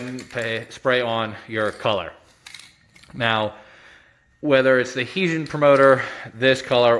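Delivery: talking through a face mask; muffled voice behind a mask. Real, not acted. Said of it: "Have a face mask on".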